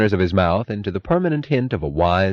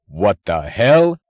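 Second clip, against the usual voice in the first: loud, slow, drawn-out yell; 2 semitones higher, 6 dB louder, much slower than usual. A narrator's reading. Boyle yelling at Kinnan's demand, loud. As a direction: yell it in outrage. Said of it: "yelled Orrin Boyle".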